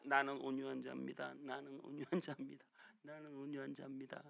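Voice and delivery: low, hushed monotone, softening with each repeat; self-calming mantra. Acted. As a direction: talk your own anger down under your breath. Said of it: "그러면 갑자기 화가 확 줄어든대". (화를 가라앉히듯 낮고 작게 읊조림)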